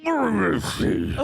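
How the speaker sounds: high, slow, weepy question; character voice. Shown as a demonstration. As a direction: draw it out, close to tears. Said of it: "No, it sounds more like this".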